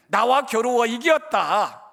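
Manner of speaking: slow proclaiming shout; slow, shouted divine pronouncement; booming voice of God. Acted. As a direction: declare it slowly like God's own voice. God's words quoted in sermon.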